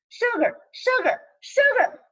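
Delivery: put-on high, pleading child chant; whiny begging kid. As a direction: beg like a little kid.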